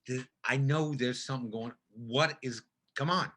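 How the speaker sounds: hushed, fast, half-laughing pleading; quiet exasperated pleading. Retold or imitated. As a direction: quietly beg for an answer, rushing the words. Pleading with director, retold.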